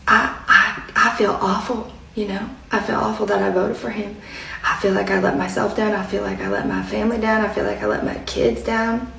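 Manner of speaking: soft, subdued imitated confession; retold remorse. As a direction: quietly voice her regret, a touch downcast. Retelling shopper's remorseful confession.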